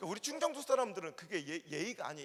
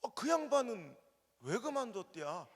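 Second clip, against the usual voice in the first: Chungcheong drawl; slower than usual. Retold or imitated. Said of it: "충청도 사람들 뭐라는지".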